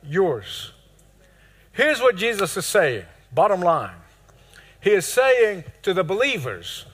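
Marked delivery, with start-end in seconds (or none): 3.3-4.0 whispered aside. Acted. Preacher's aside.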